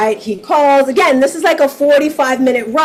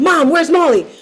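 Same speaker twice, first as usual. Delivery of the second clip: light, urgent yell; 2 semitones higher than usual. Retelling her daughter's phone call, imitating someone yelling. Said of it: "and she's yelling".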